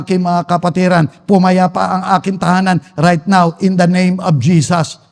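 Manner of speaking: low, steady stream of firm commands; commanding prayer. Shown as a demonstration. Preacher shows the family how to address a demon, commanding prayer. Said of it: "Pwede mong i-address yung demonyo".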